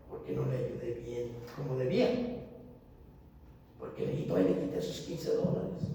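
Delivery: low, soft, breaking confession; tearful confession. Retold or imitated. Preacher retelling his confession to his wife, quiet tearful. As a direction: choke out the admission quietly. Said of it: "comencé a llorar".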